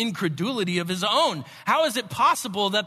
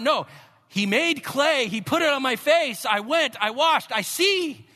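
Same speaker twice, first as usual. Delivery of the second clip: exasperated retelling; 8 semitones higher, 5 dB louder than usual. Retold or imitated. Healed man repeats his story.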